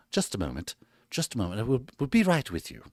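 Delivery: put-on posh British accent. Streamer stalls viewers while loading LinkedIn, put-on posh British accent. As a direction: do your best posh British. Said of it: "best posh British accent".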